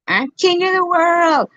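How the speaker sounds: high, slow villain boast; megalomaniac rant. Pretend. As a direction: crow it like a cartoon villain. Mock villain proclamation.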